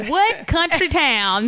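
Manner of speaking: mock country drawl. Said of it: "I hear the Alabama".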